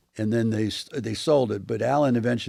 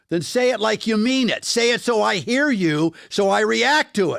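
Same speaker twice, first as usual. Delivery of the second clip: much higher and louder, pleading with Ray; mock exasperated shout; 11 semitones higher, 4 dB louder than usual. Actor scolding Ray in a scene, mock shout. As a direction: yell it at him as if fed up. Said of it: "I go".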